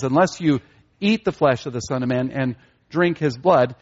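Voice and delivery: weight on "eat" and "drink"; stress on the verbs. Shown as a demonstration. Preacher quotes Jesus on eating and drinking, stress on "eat" and "drink". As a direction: pause slightly, then lean on "eat" and later "drink". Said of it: "again, we have this emphasis".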